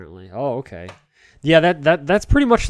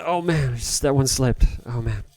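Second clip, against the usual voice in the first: ordinary delivery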